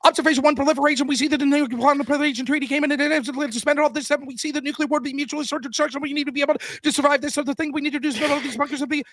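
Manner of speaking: high, rapid mock spreading debater; imitating the fast-talking opposing team; fast debater spiel. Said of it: "this team's like".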